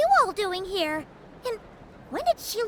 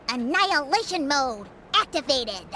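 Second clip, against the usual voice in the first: lower, mock robot announcement; 8 semitones lower than usual. Paimon quoting Inefa to the group, in a lightly mocked robot voice. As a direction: imitate a machine declaring its mode, half-hearted. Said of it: "Also, she said".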